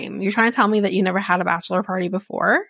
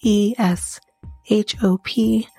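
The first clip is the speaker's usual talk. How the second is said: smooth sponsor ad read over music. Acted.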